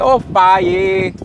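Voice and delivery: put-on a light Bahia accent; imitating Bahia accent. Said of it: "Tipo assim ... com um carioquês".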